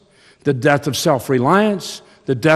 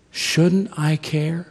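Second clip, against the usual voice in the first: gentle God; 5 semitones higher, much slower than usual. Retold or imitated. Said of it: "simply saying to him".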